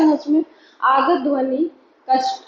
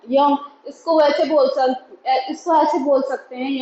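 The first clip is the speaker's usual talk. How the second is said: laughing. Real, not acted. Teacher stumbles and laughs mid-explanation.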